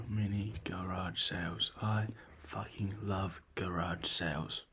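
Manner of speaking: slow whispered glee. Real, not acted. Whispering his love of garage sales while his sister sleeps. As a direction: breathe it out softly, savouring it.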